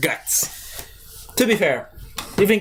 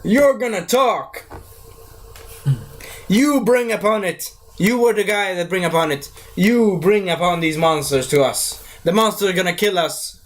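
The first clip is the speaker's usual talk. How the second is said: mock angry villager; 3 semitones higher than usual. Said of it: "he's like".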